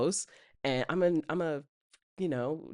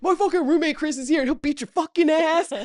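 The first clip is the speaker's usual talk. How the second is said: higher, louder mock threat through laughter; hammed-up retold threat, higher and louder; 12 semitones higher, 5 dB louder than usual. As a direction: bluff a tough threat, half laughing. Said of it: "I was just like".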